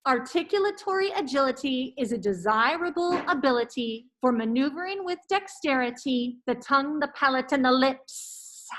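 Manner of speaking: over-enunciated through a face mask. Real, not acted. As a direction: enunciate clearly behind a mask. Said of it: "with my mask on".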